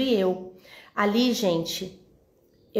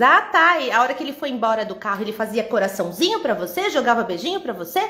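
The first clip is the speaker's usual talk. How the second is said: sarcasmo bravo. Retold or imitated. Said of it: "aí ele muito bravo".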